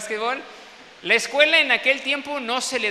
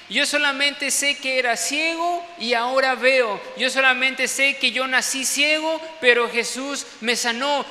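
raised, shouting voice; exasperated insisting; 4 semitones higher than usual. Retold or imitated. Healed blind man shouting back at the Pharisees. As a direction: shout it out, fed up with the questions.

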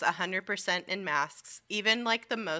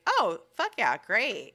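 higher, louder burst of glee; excited cheer; 4 semitones higher, 5 dB louder, slower than usual. Retold or imitated. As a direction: blurt it out like you just got great news. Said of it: "And I was like".

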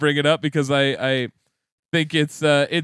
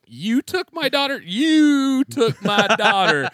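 Liam Neeson Taken voice; 8 semitones higher than usual. Pretend. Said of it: "every day I sit and I pack a box and I go".

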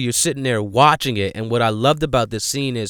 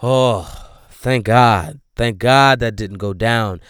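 relieved sigh; slower than usual. Acted. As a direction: breathe out in mock relief. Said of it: "you get that sigh".

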